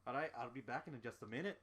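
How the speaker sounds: quick, light Scottish-Irish bartender; Scottish-Irish accent. Acted. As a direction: excuse yourself briskly in a Scottish-Irish accent. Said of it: "Scottish-Irish accent".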